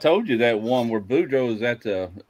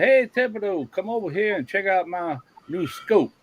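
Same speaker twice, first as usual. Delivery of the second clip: high-pitched hail to a neighbor; storyteller acting an eager call; retold calling over; 7 semitones higher than usual. Character calls neighbour over in joke.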